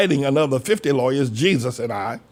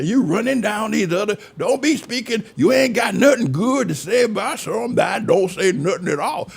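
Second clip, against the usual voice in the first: higher, nagging voice of a church critic; mock scolding critics; 7 semitones higher than usual. Critics scold preacher for criticizing, mild mock nagging. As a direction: scold like a busybody telling the pastor to hush.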